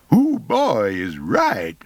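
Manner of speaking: slow, breathy conspiratorial whisper; a slow teasing whisper to a buddy. Acted. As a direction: lean in and whisper the joke slowly. Wretch teases, conspiratorial aside.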